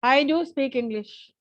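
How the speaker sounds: slow sentence with "do" held out; stress on "do". Shown as a demonstration. Teacher models an emphatic sentence for class, stress on "do". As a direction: lean on "do", then fall away. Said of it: "you are emphasizing on the word do".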